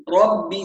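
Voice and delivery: "ربي" with a firm, doubled oral b; strong ba. Shown as a demonstration. Teacher models for students, ربي with a strong clear ba. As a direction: punch the bb of "ربي" cleanly. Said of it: "قوية".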